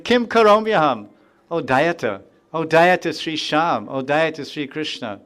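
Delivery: a touch of longing as he calls out; lightly voiced anguished devotee; mild crying out. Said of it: "And he's crying out".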